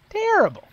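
"Terrible" shouted high and loud; emphatic. Real, not acted. Emphatic repeat.

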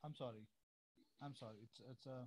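faint, distant voice on a weak line; barely audible, as if far from the mic. Real, not acted. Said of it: "your voice is very low".

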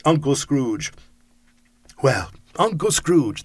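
cried out toast. Acted. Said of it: "they cried".

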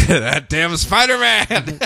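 slow, drawn-out mock outrage at Spider-Man; wrong name in a mock angry rant; mock editor rant. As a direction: rant like a cranky newspaper boss.

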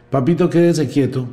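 put-on loud mom telling her little boy to sit still; scolding mother. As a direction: call to the toddler like a frazzled mom. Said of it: "si no manda y si no grita".

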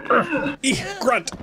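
short, high play-acted grunts; mock combat grunts. Commentators adding their own fight commentary, mock grunts. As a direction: voice the fight noises in little high bursts. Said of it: "we're adding in our own commentary".

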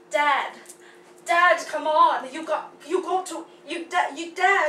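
put-on faltering go at an American accent; attempted American accent. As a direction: try calling out in an American accent and stumble. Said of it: "hear it without the accent".

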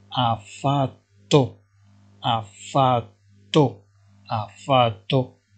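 each syllable drawn out, slowly; slow dictation. Shown as a demonstration. Teacher to Moroccan students, slowly dictating Italian. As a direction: spell it out slowly for learners. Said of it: "teacher dictating passenger word".

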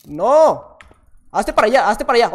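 loud, urgent shouts of alarm. Real, not acted. Gamer shouting at the attacking enemy, loud alarm. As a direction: yell at the enemy to back off.

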